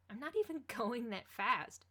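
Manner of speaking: laughing through the words; amused, teasing. A narrator's reading. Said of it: "she laughed".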